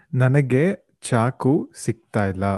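ordinary delivery

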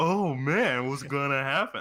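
loud, slow, dopey, dim-witted cartoon voice. Mocking how the main character sounds, quoting his line in a goofy voice.

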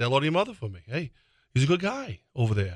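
bouncy, sing-song film star voice, pitch swinging widely. Showing a key phrase for an impression: Mark Wahlberg impression.

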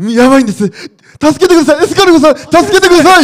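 high, loud pleading on the verge of tears. Retelling how he begs when borrowing money, imitating near-tearful begging. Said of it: "本当に泣きそうに".

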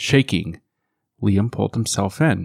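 ordinary delivery

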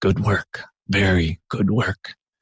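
hushed, close, leaning-in stage whisper. Voicing Haydn, who leans over and half-whispers to you while another talks. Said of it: "leans over and whispers".

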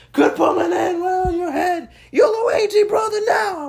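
shrill, very high, all-out, passionate yell. Retelling yelling a lyric at a concert: imitating own yelling. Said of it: "I was yelling".

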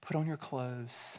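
put-on very quiet, serene, calm righteous tone. Retelling what is heard at home each morning before school, mock calm, righteous tone. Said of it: "in a very calm and very righteous tone".

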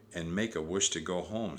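ordinary delivery

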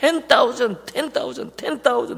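mock sudden, high, drawn-out excited shouting. Acting out Dad after he scratches a lottery ticket and jumps around, retelling someone's sudden shouting. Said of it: "갑자기 막 소리를 지르면서".

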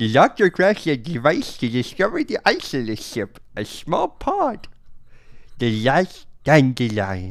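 big, exaggerated swooping delivery. Reading a recap aloud after being asked for an impression: Sid the Sloth voice. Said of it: "The Sid the Sloth".

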